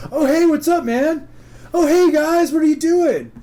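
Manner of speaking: loud, high, goofy hello; oblivious greeting. Retold or imitated. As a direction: imitate a clueless friend barging in. Oblivious Eric greets at the door.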